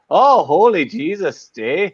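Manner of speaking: high, drawn-out mock exclamation; mocking Jay. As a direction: imitate Jay gasping in awe. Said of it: "you're talking to Jay".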